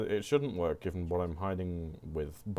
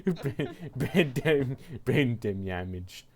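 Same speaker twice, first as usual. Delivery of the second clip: words broken by laughter; laughing; 3 semitones higher, much slower than usual. Real, not acted. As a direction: try to say it while cracking up. Laughing while repeating.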